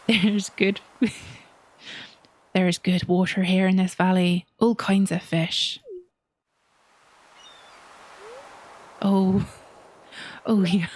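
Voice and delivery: hammed-up salty fisherman accent, chuckling in character; Willy's accent. Fisherman praises the valley's waters, hearty seafaring accent. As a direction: play a jolly sea-dog with a pirate-like accent. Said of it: "need to do the accent one more time".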